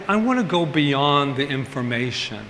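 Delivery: slowing to a thoughtful, searching ask; unhurried, searching self-question; slow inward question. Retold or imitated. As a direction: ask yourself gently and slowly. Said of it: "I said".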